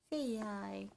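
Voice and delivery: soft, drawn-out coo. Real, not acted. Mother coaxing her baby to say hi, baby talk.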